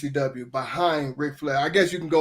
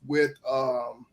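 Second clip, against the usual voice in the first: blanking on a name, slow and halting; stalling while the name won't come; brain freeze; 3 semitones lower, 3 dB quieter, much slower than usual. Real, not acted. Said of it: "damn, I got a brain freeze again".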